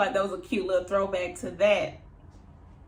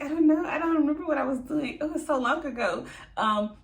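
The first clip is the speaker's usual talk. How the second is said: lightly mimicking Mary putting up a fake front, higher; a hint of someone trying to sound like somebody; Mary's put-on voice; 3 semitones higher than usual. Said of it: "She talk like she's trying to be somebody".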